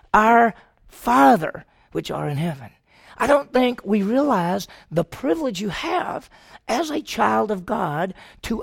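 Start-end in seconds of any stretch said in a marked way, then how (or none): 0.1-2.7 reverent prayer. Acted. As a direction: draw out Our Father like a prayer. Jesus teaches the prayer.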